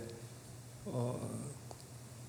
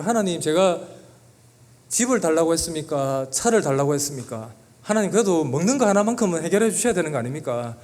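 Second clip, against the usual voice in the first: louder, pleading complaint with heavy stress; protesting to God; 2 semitones higher, 5 dB louder than usual. Retold or imitated. Hungry husband arguing with God in a café, louder protest. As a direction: argue with God, voice rising in protest. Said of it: "제가 막 하나님께 따졌어요".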